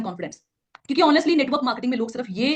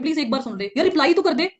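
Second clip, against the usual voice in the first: higher, louder, pleading for a yes; needy pushy tone; 5 semitones higher, 3 dB louder than usual. Shown as a demonstration. Trainer mimics a desperate recruiter begging a prospect, needy and pushy. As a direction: beg the prospect to just join. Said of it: "ये tone आपका pressure create कर रही है".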